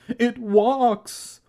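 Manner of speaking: startled shout. A narrator's reading. Uncle backing away from the mummy, high startled shout. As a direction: cry out high at the advancing monster. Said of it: "he shouted".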